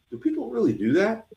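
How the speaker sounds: high, incredulous question; can't believe people actually do this; incredulous disbelief. Retold or imitated. Wondering about cigar videos, high incredulous disbelief. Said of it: "you're like".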